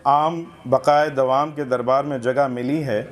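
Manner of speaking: measured literary reading aloud; humorous essay recitation. Acted. Reader presenting a satirical essay to a literary gathering, recitation. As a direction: read it out for a listening audience.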